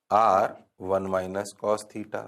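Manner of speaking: drawn-out dictation, every word spaced; slow dictation. Shown as a demonstration. Teacher to class, slow dictation pace. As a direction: spell out each term slowly for notes. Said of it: "dictating the step slowly".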